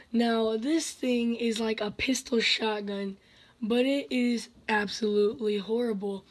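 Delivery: hoarse, tired losing voice. Real, not acted. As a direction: talk through a worn-out, hoarse voice. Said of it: "I'm kind of losing my voice".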